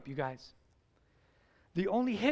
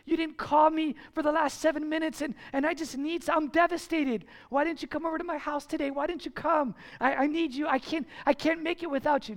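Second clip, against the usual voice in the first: mock needy pleading, raised pitch; needy clingy friend; 5 semitones higher than usual. Pastor imitating a needy friend, mildly whiny. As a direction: play the desperate friend begging.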